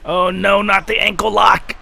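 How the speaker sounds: alarmed shout. Real, not acted. Reacting to wrestling hold.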